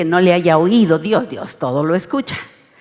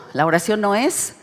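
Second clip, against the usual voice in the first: read aloud together; 3 semitones higher, 5 dB louder than usual. Shown as a demonstration. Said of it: "léalo conmigo".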